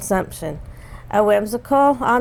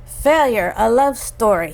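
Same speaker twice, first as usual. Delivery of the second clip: title called out, raised at the start; announcing too loudly; 3 semitones higher than usual. Real, not acted. Co-host announcing tonight's play to listeners, slightly yelled. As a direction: announce the show title a bit too forcefully. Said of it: "You don't have to yell".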